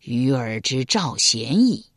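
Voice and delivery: low, slow, courteous request; 缓慢庄重地请教. Acted. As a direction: ask gravely. King's realization.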